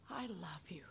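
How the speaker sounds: soft unvoiced whisper of love. Jesus whispering to mankind from the cross. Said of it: "saying to mankind".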